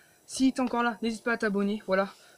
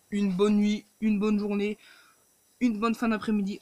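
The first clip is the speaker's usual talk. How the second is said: loud; 8 dB louder than usual. Real, not acted. Signing off to viewers.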